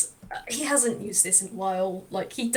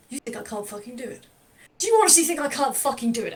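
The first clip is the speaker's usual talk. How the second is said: angry challenge; faster than usual. Acted. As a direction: dare him, getting angrier. Angry old man challenges Chifley.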